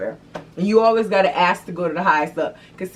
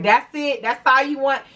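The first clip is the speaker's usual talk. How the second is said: curt Walmart clerk; 7 semitones higher than usual. Retold or imitated. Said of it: "But Walmart be like".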